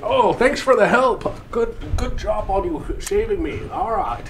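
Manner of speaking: lightly voiced grumpy brute, slow; sarcastic thanks, a bit slow; slushy sh for s. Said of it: "He's like".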